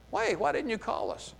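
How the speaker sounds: mock-aggrieved why didn't you call us; indignant complaint. Ephraimites complaining to Gideon.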